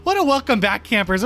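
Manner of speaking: bright showy "What a welcome back, campers"; host announcer voice. Real, not acted. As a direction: welcome the campers like a camp counselor. Addressing listeners as campers.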